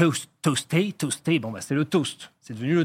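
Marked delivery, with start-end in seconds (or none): 0.0-1.4 toasté said with an English accent; toasted the English way. Shown as a demonstration. Explaining the word's English origin, toasté said English-style. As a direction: sound out toasté like an English word. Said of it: "si vous prononcez toast".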